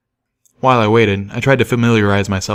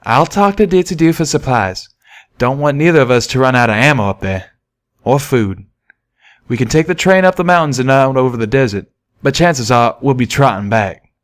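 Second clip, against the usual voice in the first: raised, friendly cowpony twang; Calamity's voice; 3 semitones higher than usual. Acted. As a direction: speak as the eager young pegasus. Calamity speaks.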